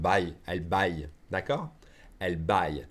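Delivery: "Buy" said like French "bâille"; French-accented "Buy", ending on a y sound. Shown as a demonstration. Teacher showing learners the verb, "Buy" in a French accent. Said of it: "Just with a French accent".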